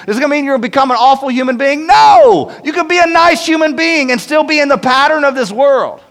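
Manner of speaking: preacher climbing to a peak; rising emphatic preaching. Real, not acted. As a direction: build up and punch the No. Preacher building to emphatic point.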